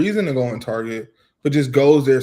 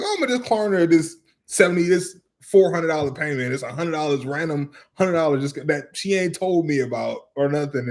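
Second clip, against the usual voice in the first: mimicking wife; 3 semitones higher than usual. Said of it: "I'm like".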